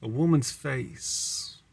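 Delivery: slow, measured sonnet reading; slow dramatic verse reading; poem recitation. Acted.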